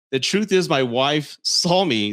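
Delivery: slow, mock-solemn read; milk each word with mock gravity; mock dramatic reading. Mocking his text, read slow and solemn. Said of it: "this cracks me up".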